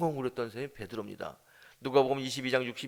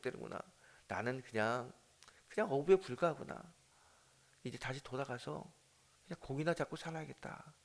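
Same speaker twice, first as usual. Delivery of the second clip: dejected resignation. Acted. Peter gives up, broken.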